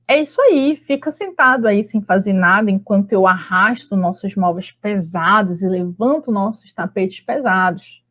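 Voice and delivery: understated ironic reproach; mild sarcasm. Acted. Wife to husband who sits while she works, mildly sarcastic. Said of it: "sarcástica, irônica".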